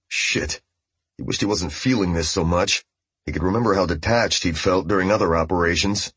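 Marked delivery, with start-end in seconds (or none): 0.1-0.6 unvoiced, soft swear; whispered curse. A narrator's reading. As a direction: breathe it out quietly. Walter's inner curse.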